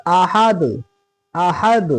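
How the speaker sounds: आहद with an echoing bounce on the final d; क़लक़ला के साथ. Shown as a demonstration. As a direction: stop on आहद, bouncing the closing d. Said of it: "यहाँ पे रुकेंगे तो दाल साकिन हो जाएगा". (आहद के आख़िरी दाल पर क़लक़ला)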